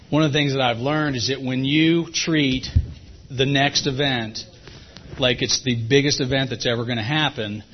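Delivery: talking while chewing gum; words around a wad of gum. Real, not acted. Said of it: "I got gum in my mouth".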